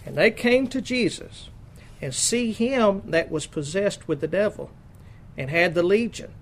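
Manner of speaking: measured, emphatic Bible reading; scripture reading. Acted. Preacher reads Mark's gospel to the congregation, emphatic scripture reading. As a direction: read out the verse in deliberate, weighted phrases.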